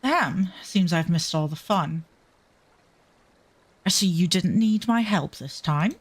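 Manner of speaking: lightly put-on posh British voice; a touch posh, an attempted accent. Latecomer who missed all the fun, mildly posh accent. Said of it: "this one's a bit of, more of a posh one".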